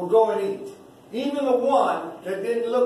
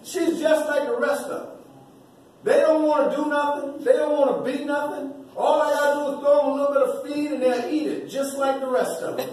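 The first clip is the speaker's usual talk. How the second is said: a hint of a scornful world sneering at you; lightly voiced, dismissive scoffing; the mocking world; 2 semitones higher than usual. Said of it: "that's what the world is saying".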